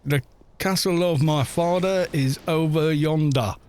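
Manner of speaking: mock attempt at a British accent; bad British accent. Streamer mocks an American actor's attempt, bad British accent. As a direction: put on a lightly botched British accent. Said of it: "Trying to do a British accent".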